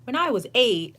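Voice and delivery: a lightly voiced stranger launching a confession; mock stranger. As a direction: play the stranger starting a life story. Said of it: "they're just like".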